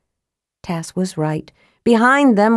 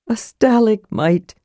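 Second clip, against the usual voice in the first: slow, solemn pronouncement; mock-grave kender seriousness; 3 semitones higher than usual. A narrator's reading. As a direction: announce it gravely and slowly. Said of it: "Tass said solemnly".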